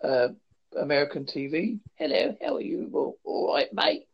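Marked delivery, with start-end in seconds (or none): 1.9-4.1 put-on TV-style British accent, cheery; mock British accent, as Americans imagine it; stereotypical British accent. Shown as a demonstration. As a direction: ham up a Cockney mate greeting, British accent. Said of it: "accent you may hear on the American T V".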